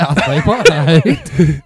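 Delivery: put-on nondescript European accent. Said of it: "That's why I'm doing a nondescript accent".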